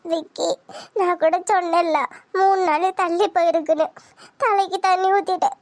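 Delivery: mildly tearful confiding; a touch of crying. Acted. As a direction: explain it while holding back tears. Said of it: "அப்புறம் ஏம்மா அழுகுற".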